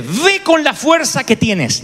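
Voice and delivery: slow, steady sending; slow firm command. Retold or imitated. God slowly sending a fearful Gedeón to fight. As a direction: say it slowly, each word weighed. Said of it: "el Señor le dice".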